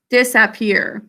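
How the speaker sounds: "disappear" as dis-AP-peer, short a as in cat; spelling pronunciation. Shown as a demonstration. Teacher blends the sounds for class, "disappear" with clear AP. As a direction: blend "disappear" keeping the AP full. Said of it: "the whole word we think to spell".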